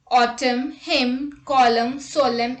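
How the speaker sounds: "Autumn", "hymn", "column" and "solemn" all end on M with no N; teacher's demo of final MN words; silent N. Shown as a demonstration. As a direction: close on the M in "column" and stop. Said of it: "N is not pronounced when it comes after M".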